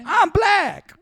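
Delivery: loud, high put-on Black accent. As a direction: shout it in a hammed-up Black voice. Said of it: "how far my black voice carries".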